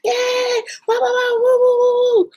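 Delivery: high celebratory whoops; real excitement, whooping high; excited. Real, not acted. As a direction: cheer like you won. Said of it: "I'm getting excited".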